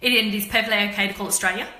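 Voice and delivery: fast, Australia said as Austraya; Australia minus the I, quick and casual; dropped I in Australia. Shown as a demonstration. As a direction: rush it out and say Australia like Straya. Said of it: "the letter I in Australia is optional".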